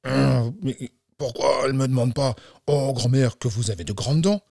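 mildly irritated storybook wolf; understated exasperation; annoyed wolf. Acted. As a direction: grumble to yourself in frustration. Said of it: "Le loup s'énerve".

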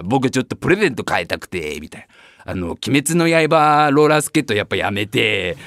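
put-on a shy kid asking for a change; child voice. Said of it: "とかいう子". (子供のおずおずした声)

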